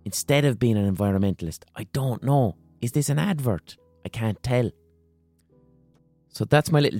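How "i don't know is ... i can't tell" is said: ordinary delivery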